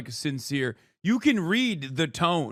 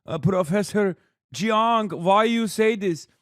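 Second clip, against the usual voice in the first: mock dismayed fan; 4 semitones higher, 3 dB louder, slower than usual. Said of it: "They're like".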